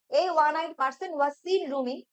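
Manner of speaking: the answer sentence read slowly. Shown as a demonstration. Teacher rereading the correct sentence slowly. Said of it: "option B এখানে হবে correct answer".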